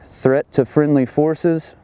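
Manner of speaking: slow, measured radio call-out; radio voice procedure. Shown as a demonstration. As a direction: read it deliberately over the net. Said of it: "Line one".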